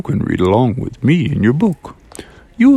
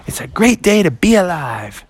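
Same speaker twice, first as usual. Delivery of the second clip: higher, joyful spoken exclamation; spoken exuberantly; 6 semitones higher than usual. Acted. Froggy surfaces from his swim feeling new, exuberant. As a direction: proclaim it happily, without singing. Spoken before friends sing it.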